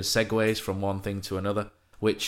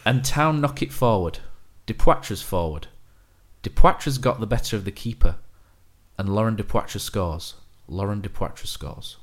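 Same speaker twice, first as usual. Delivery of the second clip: deadpan. Shown as a demonstration. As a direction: read the goal call without any excitement. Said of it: "read them with a deadpan voice".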